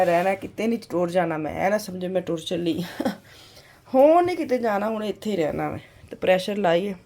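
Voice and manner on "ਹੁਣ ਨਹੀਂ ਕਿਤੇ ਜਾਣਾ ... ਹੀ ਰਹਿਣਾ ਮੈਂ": emphatic insistence. Real, not acted. Insists she is going nowhere.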